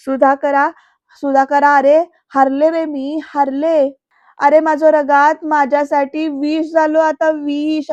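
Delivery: loud anguished cry of defeat, slowing down; shaken. Retold or imitated. Bayo crying out to Sudhakar in shaken despair. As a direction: wail it out like a broken mother. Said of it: "अशी हादरल्यासारखी झालीये".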